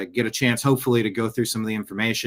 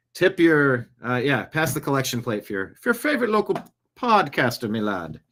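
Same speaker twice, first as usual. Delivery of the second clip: lightly hammed-up Irish accent; a hint of an Irish publican asking for tips; mock Irish. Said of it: "I don't know why he's Irish".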